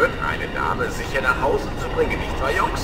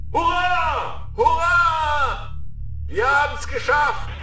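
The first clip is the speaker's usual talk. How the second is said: shouted high, triumphant cheer; jubilant cheering; 6 semitones higher, slower than usual. Acted. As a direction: yell it out in victory. Victory cheer over fleeing flagship. (jubelnder Siegesruf)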